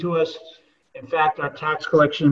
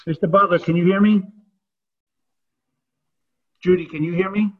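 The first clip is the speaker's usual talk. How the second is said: calling out; 2 semitones higher, 8 dB louder than usual. Real, not acted. Calling out to check hearing.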